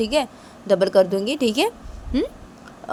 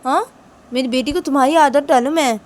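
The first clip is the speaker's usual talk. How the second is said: scolding boss; 5 semitones higher, 5 dB louder than usual. Pretend. Boss scolds the pleading maid.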